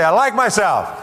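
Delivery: slow, high and loud; emphatic rallying affirmation; said like you mean it. Shown as a demonstration. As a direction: lean hard into every word. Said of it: "Say it like you mean it".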